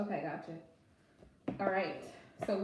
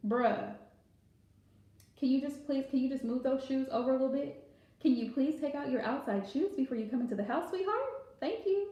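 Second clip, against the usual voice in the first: a sweet, polite request to a partner; gently ask, no nagging at all; respectful tone. Shown as a demonstration. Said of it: "in the most respectful tone of voice".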